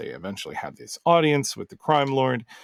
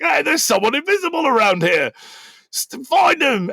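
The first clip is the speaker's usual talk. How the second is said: much higher, louder alarmed guard yell; guard shouting; 5 dB louder than usual. Acted. Guard alerting others to an invisible intruder, loud high shout. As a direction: raise the alarm, bark the order at the guards.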